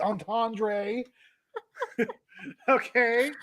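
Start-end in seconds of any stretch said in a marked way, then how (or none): 0.0-1.0 "entendre" ending in "dray", rising; imitated mispronunciation. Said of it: "the way you said it".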